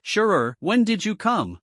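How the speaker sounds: shocked. Acted. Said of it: "Gao Long said in shock".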